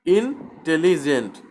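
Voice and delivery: "ইন্টেলিজেন্ট" with a slight break after ইন; step by step. Shown as a demonstration. Teacher begins dividing the word, "ইন্টেলিজেন্ট" said in parts. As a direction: say "ইন্টেলিজেন্ট" in parts, ইন first, then the rest. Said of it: "তিনবার আমাকে ধাপে ধাপে".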